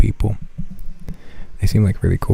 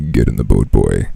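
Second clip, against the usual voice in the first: much lower, gruff god-of-war growl; Kratos impression; 12 semitones lower, 4 dB louder than usual. Streamer imitating Kratos ordering his son, deep and gruff. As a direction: rumble it like a stern warrior father. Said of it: "I'll be like Kratos".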